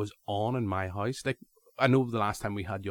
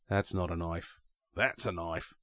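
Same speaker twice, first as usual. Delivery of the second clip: a lightly put-on, bad Australian accent, pitched lower; terrible Australian accent; 4 semitones lower, 4 dB quieter than usual. Podcast host quoting Crocodile Dundee's knife line, mock Australian accent. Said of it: "Cue my terrible Australian accent".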